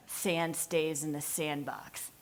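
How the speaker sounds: slow, low, deliberate warning; defiant kid. Retold or imitated. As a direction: lay down the rule slowly. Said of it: "lock eyes with me and go".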